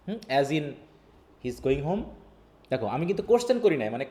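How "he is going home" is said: statement turned question, HOME rising; rising question tune. Shown as a demonstration. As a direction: lift "home" at the end to make it a question. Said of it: "আমি কোশ্চেনে রূপান্তর করছি". (শেষে "home" উঁচু করে প্রশ্নের সুর)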